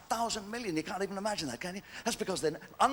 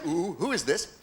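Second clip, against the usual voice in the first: wife's quote; slower than usual. Retold or imitated. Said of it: "she said".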